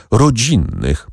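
slow, pressed correction of Rodzinnych; firm emphatic correction; with emphasis. A narrator's reading. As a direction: lean hard on Rodzinnych, slowly. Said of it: "poprawiła Kasia z naciskiem".

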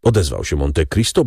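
plain reading voice

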